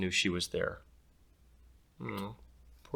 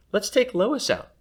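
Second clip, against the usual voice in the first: put-on bossy girl; 12 semitones higher, 6 dB louder than usual. Cassidy's mischievous idea.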